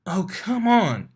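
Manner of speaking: high, slow and playful "oh, come on"; smiling exclamation. A narrator's reading. Mare coaxing the pegasus to talk, smiling. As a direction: tease him, drawn out and grinning. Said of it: "she exclaimed, still smiling".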